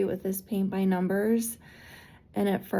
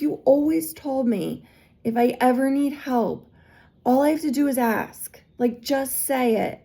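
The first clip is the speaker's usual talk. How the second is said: indignant reproach; 4 semitones higher, 4 dB louder than usual. Retold or imitated. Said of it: "I was like".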